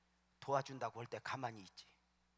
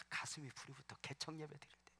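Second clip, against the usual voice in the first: whispered aside; 3 semitones higher, 8 dB quieter than usual. Real, not acted. Aside during the founding-service story.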